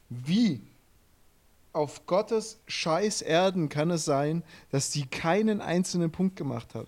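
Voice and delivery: retold thought, slowly incredulous; exasperated disbelief. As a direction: space out each phrase in exasperated disbelief. Retells his exasperated thought at result.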